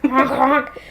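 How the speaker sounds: goofy honking back; silly clown. Pretend.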